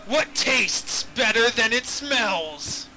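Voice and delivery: slow, lightly pirate dragon riddle. Acted. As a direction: pose the riddle slowly. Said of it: "So the dragon goes".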